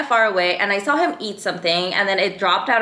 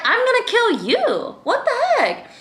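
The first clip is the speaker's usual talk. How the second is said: retold scream; 14 semitones higher than usual. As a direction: yell it back, hammed-up and furious. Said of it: "screaming at the top of my lungs".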